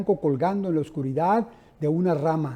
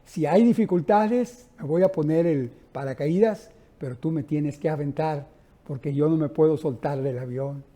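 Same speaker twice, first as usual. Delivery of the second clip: laughing refusal. Retold or imitated. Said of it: "le dije".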